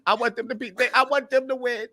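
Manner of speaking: high, eager rooting for them; excited inner voice. Retold or imitated. Recalling rooting for the team, high and eager. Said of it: "And I was like".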